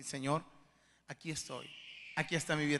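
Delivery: low, soft surrender to God; humble prayer. Acted. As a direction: pray it quietly and humbly. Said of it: "con esa disposición humilde delante de Dios". (oración humilde, en voz baja)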